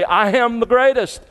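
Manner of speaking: lightly voiced champion crowing; Muhammad Ali boast. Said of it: "Muhammad Alis in the church who say".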